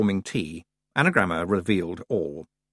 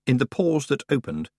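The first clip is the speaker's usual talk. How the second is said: plain reading voice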